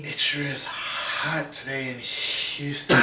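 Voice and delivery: slow, sultry, campy drawl; campy drag queen. Pretend. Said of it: "You sound like a drag queen that's, like, high and horny".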